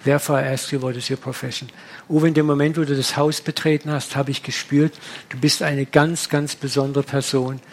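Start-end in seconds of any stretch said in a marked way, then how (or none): 0.0-1.7 a hint of a tear-choked voice, fading quieter. Moved host asks Uwe his profession in a lightly tear-choked voice. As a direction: gently imitate a man choked up with tears, trailing off. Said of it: "mit Tränen erstickter Stimme".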